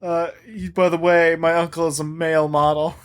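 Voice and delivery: sheepish fake excuse; awkward excuse voice. Acting Ravi's excuse.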